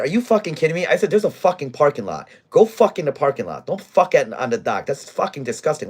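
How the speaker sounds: retold angry rant at drunk couple; angry retold yelling. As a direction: bark at the couple like a fed-up bar manager.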